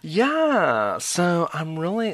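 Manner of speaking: high "yeah" then vocal fry; mock excited vocal fry answer. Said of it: "I'll show you how they answer".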